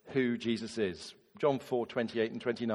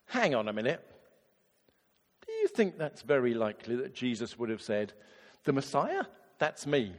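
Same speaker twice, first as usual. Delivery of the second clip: sceptical; 2 semitones lower than usual. Retold or imitated. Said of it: "they say".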